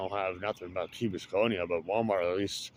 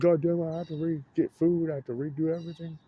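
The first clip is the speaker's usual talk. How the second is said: high, louder mock-angry bird rant; voicing a grumpy bird; 9 semitones higher, 4 dB louder than usual. Voicing a bird upset that spring ended, high mock-angry rant. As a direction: rant in a pitched-up squawky bird voice. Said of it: "He's not happy about that storm coming".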